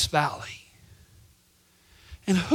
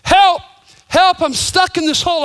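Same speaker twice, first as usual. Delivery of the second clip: loud, high desperate calls; desperate cry for help; 7 semitones higher, 6 dB louder than usual. Acted. Boy, frustrated in the hole, cries out desperately and loud. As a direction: plead up from the hole, getting frantic. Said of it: "cry now in desperation".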